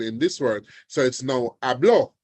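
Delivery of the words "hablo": "hablo" with stress moved to the final o; last-syllable stress. Shown as a demonstration. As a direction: land hard on the o, ha-BLO for "hablo". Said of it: "now is on the second or the last syllable".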